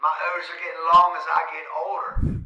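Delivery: loud Baltimore accent with long O's. Shown as a demonstration. Local showing off long O's, Baltimore accent. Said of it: "you can hear the way I".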